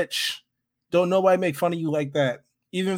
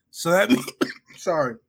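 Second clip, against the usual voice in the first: talking while eating watermelon; mouth full; 2 semitones lower, faster than usual. Real, not acted. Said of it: "I was eating watermelon. I got the fucking seasoning stuck in the back of my throat".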